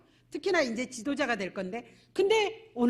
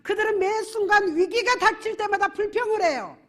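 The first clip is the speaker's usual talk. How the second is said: loud, high, building sermon climax; preaching at full force; 5 semitones higher, 6 dB louder than usual. Acted. Pastor thundering about Israel's grumbling to the congregation. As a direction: drive it home to the congregation.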